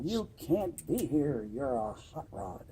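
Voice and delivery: half-hearted retold scream, words stretched out. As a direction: imitate an irate man telling you off, slowly. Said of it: "just screaming at us".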